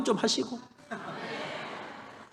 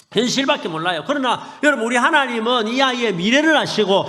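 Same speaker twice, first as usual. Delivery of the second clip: normal talking voice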